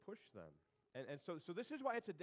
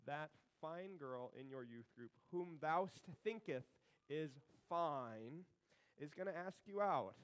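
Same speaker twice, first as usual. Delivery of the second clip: mock King James; 3 dB louder, slower than usual. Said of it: "he talked in King James".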